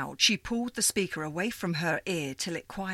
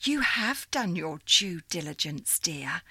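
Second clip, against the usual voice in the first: put-on old operator lady. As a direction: greet her like a fond old supervisor. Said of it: "the woman's voice said".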